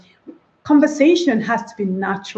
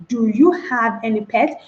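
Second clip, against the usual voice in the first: separated words. Shown as a demonstration. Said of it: "That is rather unacceptable".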